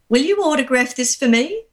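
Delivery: amused retelling through laughter; laughing quote. Retold or imitated. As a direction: quote him while cracking up. Retold funny request, laughing.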